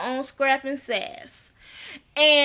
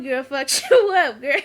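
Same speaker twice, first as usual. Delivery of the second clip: laughing; 4 dB louder than usual. Real, not acted. Laughing at the broken hand.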